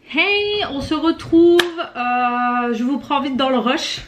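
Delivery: breathless, rushed greeting; out of breath. Real, not acted. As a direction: still panting from the rush. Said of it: "je suis essoufflée".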